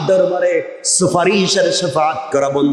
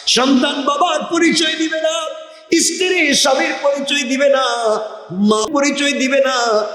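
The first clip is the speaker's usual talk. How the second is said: high-pitched preacher's refrain; impassioned preaching; 9 semitones higher than usual. Acted. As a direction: ring out each denial in a high preaching cry.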